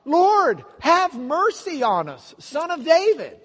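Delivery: high, very loud shouted plea. Retold or imitated. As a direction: shout it out with all your might. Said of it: "They cried out all the more".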